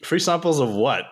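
mock British accent on "samples"; catching British accent. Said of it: "you got me saying samples".

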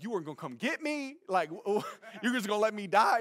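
incredulous, laughing complaint; laughing disbelief. Retold or imitated. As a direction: laugh while accusing him.

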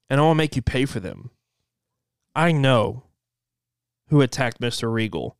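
lightly voiced sinister stalker; distorted masked voice. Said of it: "a distorted voice".

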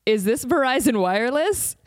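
caller voice with laughter; laughing through quote. Retold or imitated. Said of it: "he goes".

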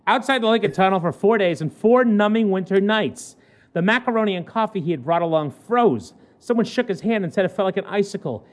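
measured newspaper read-aloud; lightly performed human-interest news read; news story read. Acted.

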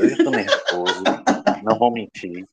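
laughing nervously through the words; jittery giggle while talking. Real, not acted. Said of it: "É risada de nervoso".

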